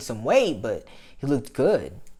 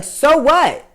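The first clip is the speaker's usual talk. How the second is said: much higher, louder scoffing retort; indignant; 7 semitones higher, 9 dB louder than usual. Retold or imitated. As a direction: throw it back at them. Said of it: "I'm just like".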